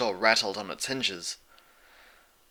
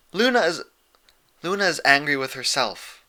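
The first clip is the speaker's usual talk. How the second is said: higher, louder, firm interruption; interrupting princess; 5 semitones higher, 4 dB louder than usual. A narrator's reading. Celestia interrupting Twilight's guilty rambling. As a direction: cut in gently but firmly. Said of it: "Celestia interrupted".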